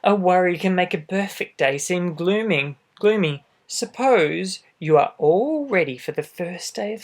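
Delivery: lively storybook read-aloud; reading to children. A narrator's reading. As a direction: read it out to little listeners. Reads picture book aloud.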